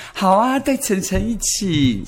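put-on slow, lightly cutesy baby talk. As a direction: drag it out sweetly like a child. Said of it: "想不想吐".

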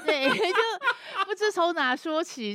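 slow words through laughter; laughing. Real, not acted. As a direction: laugh while you admit it. Laughs while answering.

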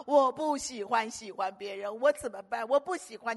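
mock whiny young girl; imitating crying girl. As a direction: play the sobbing sister lightly. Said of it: "一直打电话跟我哭说". (轻轻模仿哭诉的女孩)

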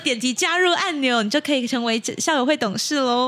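upbeat hard-sell host voice; livestream sales pitch. Pretend. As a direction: push the join button like a TV shopper host. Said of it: "现在直播带货是吧". (直播带货的叫卖腔)

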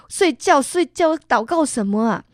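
mock-impatient mom telling him to sleep; scolding mother. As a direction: snap at the kid to go back to sleep. Mother scolding scared son at night.

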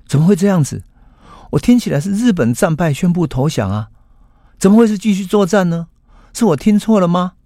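声音猛地拔高，满是不敢相信; 急切又难以置信地连声发问; 惊讶追问. Acted. 佐佐木惊闻战败消息. (佐佐木难以置信地向两位老朋友追问，声音很高)

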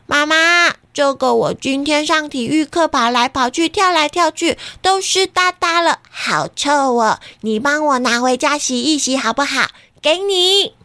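put-on high whiny kid voice; big sister voice. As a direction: whine like a sweaty kid. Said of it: "姐姐一放学就说".

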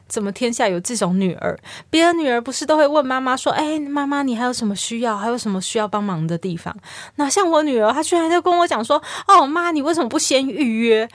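playing a mother venting about her daughter; retold indignant mother. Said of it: "所以他越想越气啊". (模仿妈妈愤愤不平地抱怨)

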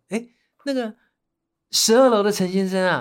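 cheerful resident hailing a neighbor; imitating friendly neighbor. Resident greets him by wrong name.

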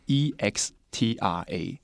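letters said one by one, slowly; spelling it out. Shown as a demonstration. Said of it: "那它怎么拼呢？".

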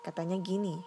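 ordinary delivery, nothing marked

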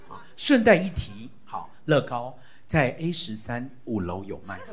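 put-on stiff courtly child addressing father; hammed-up old-fashioned reverence; stilted classical-style prayer, lightly played; mock formal prayer. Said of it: "我们祷告都变成这样文绉绉的".

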